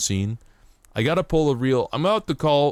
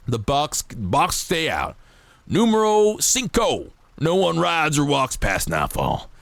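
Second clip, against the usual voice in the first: put-on lightly drawled generic cowboy accent reading rules; a hint of an old west townsman; 6 semitones higher than usual. Streamer reading game rules to chat, light cowboy accent. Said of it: "I'm doing a cowboy accent".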